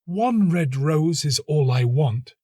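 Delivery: high, slow insistent plea; begging for only one rose; nightingale crying out. A narrator's reading. Nightingale pleading with the rose tree, high and slow. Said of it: "cried the nightingale".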